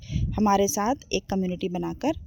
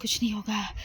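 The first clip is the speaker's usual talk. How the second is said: reassuring herself; 2 semitones lower, 8 dB quieter than usual. Real, not acted. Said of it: "मैं अपने से बोल रही हूँ".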